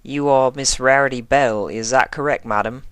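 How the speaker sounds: put-on a nervous young officer keeping it proper; polite colt officer checking her name; formal young constable.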